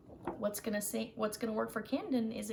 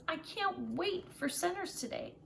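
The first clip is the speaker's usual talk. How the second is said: put-on eager, higher child voice; a kid excited for centers; lightly voiced eager child; Camden's voice; 3 semitones higher than usual. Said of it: "Camden starts off and says".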